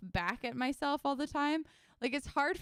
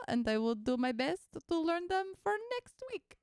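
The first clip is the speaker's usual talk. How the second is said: put-on a vague, unplaced French-sounding accent, lifted a bit higher; random French-ish accent; 4 semitones higher than usual. Streamer promising viewers to learn songs, in a vague French-ish accent. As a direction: toss off the line in a goofy made-up French accent. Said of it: "What is this accent I'm doing?".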